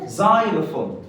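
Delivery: زايلوفون with an opening z sound; correct pronunciation of زايلوفون. Shown as a demonstration. Teacher putting the z sound into xylophone, careful z-initial زايلوفون. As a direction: model زايلوفون as "ZY-le-fone". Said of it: "علشان ننطقها صح هنقولها".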